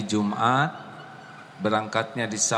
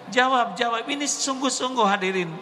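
urging audience; 12 semitones higher than usual. Real, not acted. Preacher presses audience to answer.

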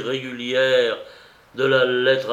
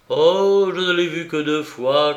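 pleading protest; 4 semitones higher, 7 dB louder than usual. Acted. Aratov protesting to Anna.

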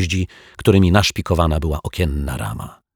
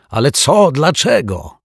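high, louder confused shout; shouting back; 9 semitones higher, 6 dB louder than usual. Acted. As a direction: yell back in bewilderment. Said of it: "odkrzyknął detektyw Pozytywka". (odkrzykuje zdezorientowany)

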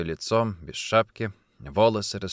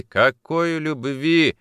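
drawn-out, louder, bitter question; bitter scoff; 6 semitones higher, 5 dB louder, much slower than usual. A narrator's reading. Officer mocks her talk of love, bitter. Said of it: "горько усмехнулся Никитин".

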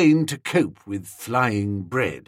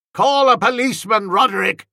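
raised, high urgent call; cried; 8 semitones higher, 4 dB louder than usual. A narrator's reading. Sir Watkin crying out to Roderick for a policeman, loud and alarmed. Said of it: "he cried".

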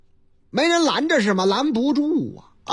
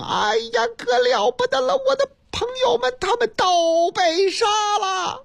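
much higher, frantic shouting for help; panicked yelling; 9 semitones higher than usual. Retold or imitated. Fake caller yelling down the phone to the police, panicked. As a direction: cry out in a panic, straining the throat. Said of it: "扯着脖子的嚷嚷".

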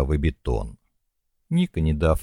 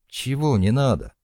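suddenly angry; 7 semitones higher than usual. A narrator's reading. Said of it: "неожиданно разозлился Ник".

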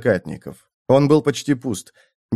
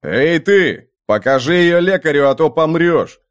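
shout; 4 semitones higher, 3 dB louder than usual. Acted. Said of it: "Джоакин крикнул раненому".

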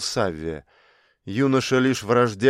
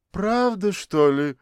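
high mocking echo of the question; mocking copy; 7 semitones higher than usual. A narrator's reading. Mother mimics her daughter's question, high mocking echo. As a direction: throw her words back at her. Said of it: "Она скопировала вопрос дочери".

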